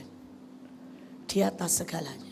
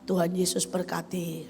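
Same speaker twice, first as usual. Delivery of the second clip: softer, calm answer to an angry husband; gentle reply; 3 semitones lower, 4 dB quieter, slower than usual. Acted. Wife calmly blessing her raging husband, softer. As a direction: answer him gently and softly. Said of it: "Bilang ini".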